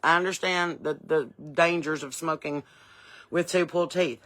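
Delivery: talking around gauze in mouth; mouth full of gauze. Real, not acted. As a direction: speak through a mouthful of gauze. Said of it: "Got my gauze in my mouth".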